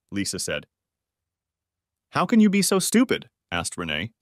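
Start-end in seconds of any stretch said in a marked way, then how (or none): 2.1-3.3 high, loud, disbelieving fury; outraged yell. Acted. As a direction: hurl the question at her mother. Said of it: "Renee was far more upset".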